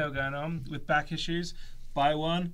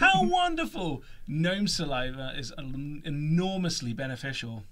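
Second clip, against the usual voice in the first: Luna voice. Acted. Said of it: "Luna again".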